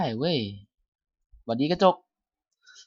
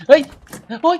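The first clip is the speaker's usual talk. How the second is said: real high-pitched shocked cursing; startled; 4 dB louder than usual. Real, not acted. Gamer swearing at a jump scare, startled. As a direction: yelp and swear in sudden fright. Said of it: "กูตกใจ".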